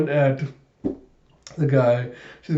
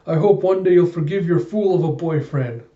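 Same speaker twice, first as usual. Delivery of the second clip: mildly dramatic, raised-pitch apology; 4 semitones higher than usual. Acted. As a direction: act out a hurried, melodramatic sorry. Waiter's acted apology while running.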